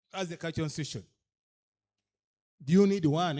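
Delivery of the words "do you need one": loud rhetorical challenge, stress on you; emphatic question. Real, not acted. Speaker challenges cultural leaders about a charter, loudly and emphatically. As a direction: press the leaders hard with the question.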